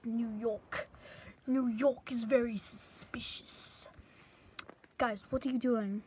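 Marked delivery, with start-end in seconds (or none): 0.0-3.9 soft, slow, secretive whisper; suspicious whisper. Acted. New York guy whispering his suspicion. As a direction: breathe it like a conspirator.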